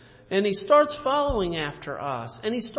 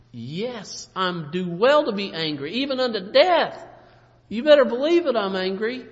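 angry Jonah; 3 semitones higher, 6 dB louder than usual. Acted. Jonah voiced, angry at God.

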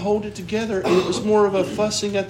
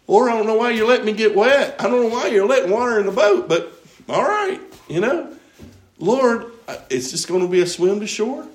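anxious prayer; 3 semitones higher, 4 dB louder than usual. Acted. Acted anxious prayer to the Lord.

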